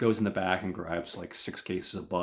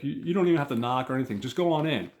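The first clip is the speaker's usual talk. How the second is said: higher, louder put-on thug voice; thug character; 6 semitones higher, 6 dB louder, much faster than usual. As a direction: play a thug loudly pointing the kid along. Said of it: "this guy that looks like a thug".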